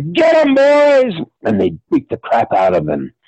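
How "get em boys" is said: high, drawn-out call to attack; hammed-up high-pitched battle cry; rallying cry. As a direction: holler the gang into action. Actors rush in to attack.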